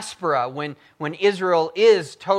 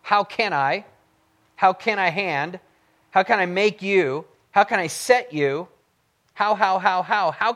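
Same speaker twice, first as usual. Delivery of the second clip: each "How" pitched up and hit firmly; higher, insistent repeats of "How"; stress on HOW; 4 semitones higher, 4 dB louder than usual. Shown as a demonstration. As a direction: drive home every "How". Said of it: "Notice the vor-, four hows".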